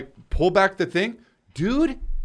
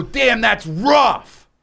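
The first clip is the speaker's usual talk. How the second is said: mock sympathy; 8 semitones higher, 6 dB louder, much slower than usual. Repeated mock sympathy quote.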